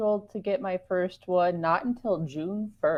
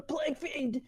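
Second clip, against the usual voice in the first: laughing; 9 semitones higher, slower than usual. Real, not acted. Joking, laughing.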